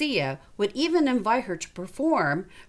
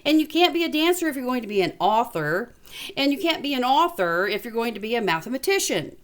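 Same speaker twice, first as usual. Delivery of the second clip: lightly voiced friend; 2 semitones higher than usual. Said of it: "Jessie said".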